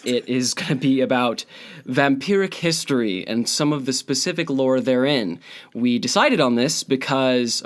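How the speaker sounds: slight lisp from braces. Real, not acted. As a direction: talk around braces in mouth. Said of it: "I'm lisping like crazy right now because I have my braces in".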